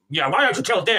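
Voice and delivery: high, petulant mock retort; hammed-up teenage strop; stroppy teenager. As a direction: throw it back like a sulky teen. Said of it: "just a stroppy teenager".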